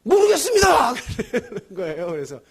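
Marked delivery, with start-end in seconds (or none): 0.0-0.9 panicked soldier's shout, much higher and louder; flustered shout. Retold or imitated. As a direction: bark it out in confusion. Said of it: "얘가 막 당황해가지고".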